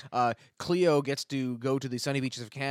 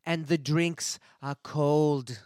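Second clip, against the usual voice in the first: tourism ad voice; 3 semitones higher, 3 dB louder, slower than usual. Pretend. Mock tourism ad.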